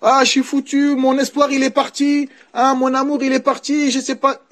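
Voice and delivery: half-hearted impression of a mourner crying out; mock wailing widow. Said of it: "quand il y a un décès". (imitation légère d'une endeuillée qui se lamente)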